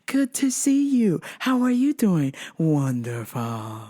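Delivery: slow, sing-song stiff greeting; imitating robotic niceness; strange robotic tone. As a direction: mimic that eerily cheerful tone. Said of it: "That same strange tone".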